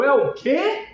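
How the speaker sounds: mock-incredulous question, pitch sweeping up; "say what?" with a sharp rising end; incredulous reply. Teacher reacting to the AI's wrong answer, mock incredulous.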